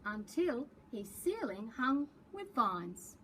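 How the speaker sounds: lively picture-book read-aloud; reading to children. A narrator's reading. Librarian reading a picture book to preps, storytelling voice. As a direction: read the story to young kids with big expression.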